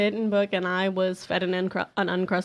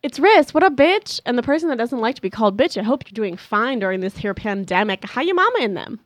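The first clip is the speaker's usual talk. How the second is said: loud hyped intro; 3 semitones higher, 5 dB louder than usual. Real, not acted. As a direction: burst in with big energy. Co-host bursts in with intro.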